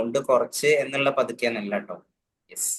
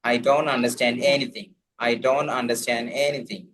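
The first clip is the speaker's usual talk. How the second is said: slow model phrase; much slower than usual. Shown as a demonstration. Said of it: "teacher models the phrase slowly".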